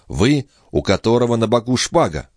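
a reproachful angry burst; angry outburst. A narrator's reading. Sister scorns her brother's sword, angry outburst. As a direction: throw it at him as a reproach. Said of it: "Этот гневный взрыв".

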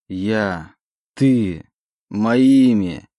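choked up. Acted. Oleg tries to speak, choked by emotion. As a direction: force words through a lump in the throat. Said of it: "Эмоции душили".

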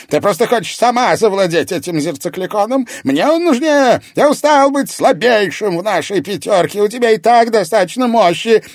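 loud, high resentful outburst at the lady of shadows; angry rant. A narrator's reading. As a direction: demand it furiously. Mirror master rants at the lady.

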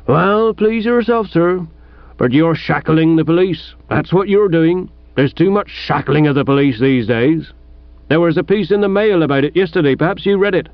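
lightly voiced aggrieved village policeman; disgruntled police sergeant. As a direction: grumble like a mildly put-out sergeant.

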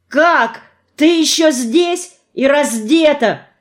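high, startled cry; exclaiming. A narrator's reading. Innokenty notices she is still there coatless, startled exclamation. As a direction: cry out as if suddenly coming to. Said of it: "вскричал он, окончательно придя в себя".

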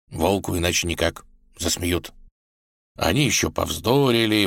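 ordinary delivery

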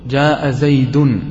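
"جاء زيد" said slowly, each vowel drawn out; teacher spelling out an example for students, slow and deliberate. Shown as a demonstration. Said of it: "يعني حين تقول".

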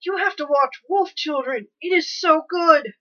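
gushing, high and loud, slowed down; overflowing with eager enthusiasm; excited. Real, not acted. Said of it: "She's too excited".

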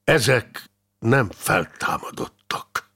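slow, coldly measured denial; restrained, frosty delivery; icy voice. Acted. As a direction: deny it coldly, word by word. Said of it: "mondta Lackfi fagyos, halk hangon".

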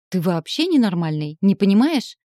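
громкий вскрик, голос вверх к концу; выкрикнуть ему, почти плача; восклицание сквозь слёзы. Acted. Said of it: "воскликнула я сквозь слёзы". (вскрикнула сквозь слёзы)

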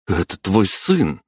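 slow, firm and stern. Acted. Mother turning on Grigory, a slow, firm stern line. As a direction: lay it down slowly like a verdict. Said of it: "неожиданно суровым голосом произнесла мама".

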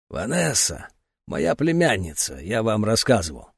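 a hint of a choked old man; strained throat. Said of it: "словно выталкивая из сдавленного горла слова".

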